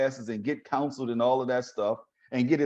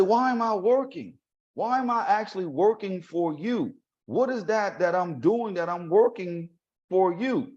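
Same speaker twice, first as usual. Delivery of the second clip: higher-pitched, incredulous questioning; retold indignant protest; 6 semitones higher than usual. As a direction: question her in disbelief, voice pitched up. Student protests unpaid work.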